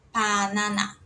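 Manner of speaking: "pananá" with P and all A's open; Korean pronunciation. Shown as a demonstration. Teacher shows how Koreans say banana, open-vowel demonstration. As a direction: say "pananá" with a separate PA, then open NANÁ. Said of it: "No coreano é assim".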